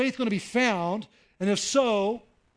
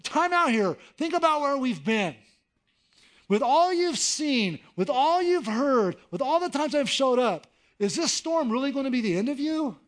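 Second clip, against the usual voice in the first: urgent reminder; 7 semitones higher, 4 dB louder than usual. Acted. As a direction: shake them awake, lovingly. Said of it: "Jesus wants to look at you and go like".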